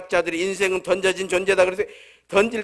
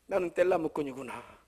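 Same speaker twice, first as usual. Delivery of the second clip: very slow, softer self-mocking line; slow punchline; 4 semitones lower, 7 dB quieter, much slower than usual. Preacher mocking his own wedding look, slow and soft. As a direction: drag the punchline out quietly.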